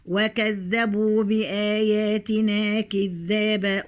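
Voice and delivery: slow tajweed chant with long held vowels; Quran recitation. Shown as a demonstration. Teacher recites the verses to the students, slow chant. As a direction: stretch every madd like a reciter.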